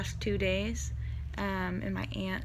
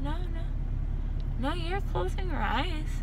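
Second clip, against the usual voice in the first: imitating the nurse; 9 semitones higher, much slower than usual. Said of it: "And she said".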